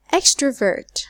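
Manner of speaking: "extrovert" with the first syllable EX punched; first-syllable stress. Shown as a demonstration. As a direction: hit EX in "extrovert", let the rest drop. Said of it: "it must be the first syllable".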